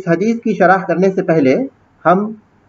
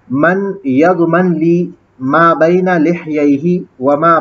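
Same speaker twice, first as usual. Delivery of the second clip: hadith recitation. Acted. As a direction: recite the hadith in careful Arabic, unhurried. (धीमा अरबी पाठ)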